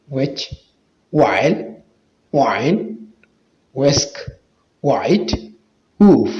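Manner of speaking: isolated words with WH said as w; WH as "waw". Shown as a demonstration. Teacher drilling WH words for viewers, plain w sound. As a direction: say each word separately, WH as in "वाव". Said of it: "डब्ल्यूएच वाव का आवाज़ देता है".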